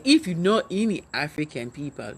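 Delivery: put-on words shaped in an amateur African accent; imitated African accent. Teacher telling students about Africans, imitated African accent. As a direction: attempt a light African accent. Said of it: "I'm not saying I'm, I'm good at it".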